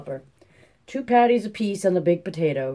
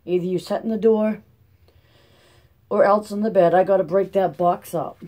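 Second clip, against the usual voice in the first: firm raised order; 3 semitones higher, 4 dB louder than usual. Acted. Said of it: "Ma ordered".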